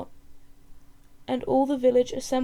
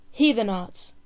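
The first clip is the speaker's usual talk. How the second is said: louder, curt angry snap; snapped retort; 6 dB louder, slower than usual. Acted. Chief advisor silencing the crowd, a sharp louder snap. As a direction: bite back at the crowd. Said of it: "snapped back the chief advisor".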